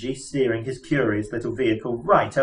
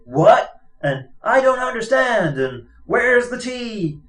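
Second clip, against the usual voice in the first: dim brain imitation; 11 semitones higher, 4 dB louder than usual. Zaphod mimics a dumb robot brain.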